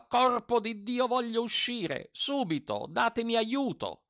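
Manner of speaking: high, slow, raging yell; furious yelling. A narrator's reading. Trapped mender rages at the master, high slow yell. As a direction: curse and demand help at once.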